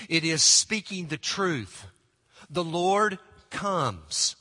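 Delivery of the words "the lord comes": The Lord comes, each word slow and weighty; slow proclamation. Shown as a demonstration. Pastor announces the Lord's coming, slow and weighty. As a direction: proclaim it very slowly, like a warning. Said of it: "It's a warning".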